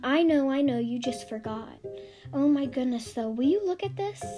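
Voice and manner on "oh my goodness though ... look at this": a thrilled mum reading the report card; proud, gushing mother; delighted mother. Acted.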